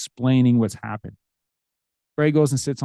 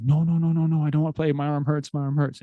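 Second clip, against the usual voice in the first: imitating sobbing son; 3 semitones higher than usual. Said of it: "And he starts sobbing again".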